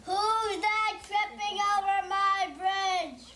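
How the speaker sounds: a slowish, lightly voiced troll challenge; a kid's mild mock troll roar; child playing troll. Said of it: "would like to be the troll".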